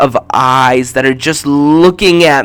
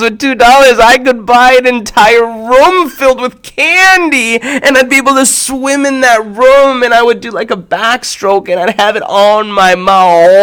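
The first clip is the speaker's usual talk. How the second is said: put-on higher and louder childlike daydream; excited kid; 5 semitones higher, 3 dB louder than usual. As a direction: gush like a kid dreaming of candy. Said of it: "I was super excited".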